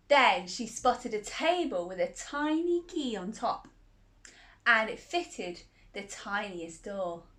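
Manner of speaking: gentle storybook telling; reading to a child. Acted. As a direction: read it like a bedtime story.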